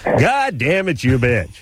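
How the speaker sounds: booming radio announcer delivery. Retold or imitated. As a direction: play it like a cheesy DJ. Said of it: "does your dad use that radio voice?".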